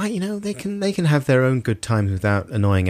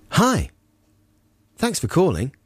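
higher, chatty voicemail greeting with gaps; answering machine greeting; 8 semitones higher than usual. Acted. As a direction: sound like someone really picking up. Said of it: "the message will be something like".

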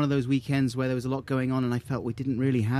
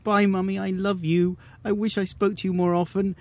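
heartfelt goodbye; 6 semitones higher than usual. Pretend. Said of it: "What I want to say is".

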